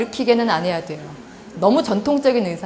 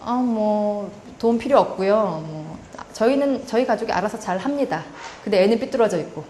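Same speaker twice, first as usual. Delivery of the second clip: stiff, standoffish parent. Retold or imitated. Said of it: "되게 이렇게 뻣뻣한 자세로".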